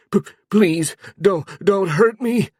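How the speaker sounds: high, stuttering begging, slowed and shaking; terrified pleading. A narrator's reading. Zeno begs the goblin shaman not to hurt him. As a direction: plead for your life. Begging after lightning torture.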